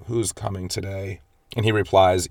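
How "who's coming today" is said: soft, drowsy mumble, lightly imitated; half-asleep, barely lifting the voice; sleepy. Woman just woken in bed, asking her husband, softly sleepy. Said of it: "she sleepily says to him".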